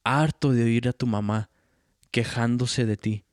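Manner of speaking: hammed-up angry father ranting; loud mock tirade from the drunk father; drunk dad's rant. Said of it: "He's all".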